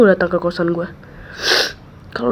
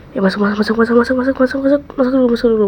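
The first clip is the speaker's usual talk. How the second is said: urgent hurry; 4 semitones higher, 5 dB louder, faster than usual. Acted. Urging drunk friend inside.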